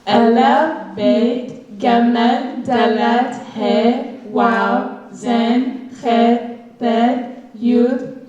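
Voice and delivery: each letter named slowly and clearly; alphabet recitation. Acted. Student reading the alphabet to the audience, clear recitation. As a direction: read the letters out to the class.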